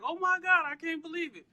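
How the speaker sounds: high, overwhelmed mock wail; pretend tearful disbelief. Imagining getting the big call, mock-crying in disbelief. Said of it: "crying, like".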